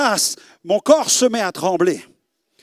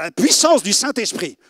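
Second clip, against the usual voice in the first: usual speaking voice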